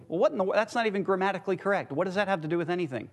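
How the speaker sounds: fast, tossed-off mock protest; teasing mock objection. Preacher teasing the congregation as a doubter, mock objection. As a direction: rattle off a pretend objection. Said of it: "I'm just teasing with you".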